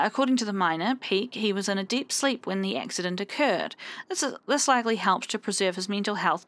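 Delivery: measured newsreader delivery, falling sentence ends; news anchor voice. Acted. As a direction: read it like a news bulletin. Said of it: "I've gone into, like, news anchor voice".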